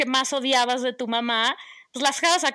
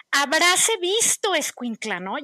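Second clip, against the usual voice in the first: gasping soap opera drama; 3 semitones higher than usual. Retold or imitated. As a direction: play the wounded martyr mother. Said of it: "casi como de telenovela". (drama de telenovela indignado)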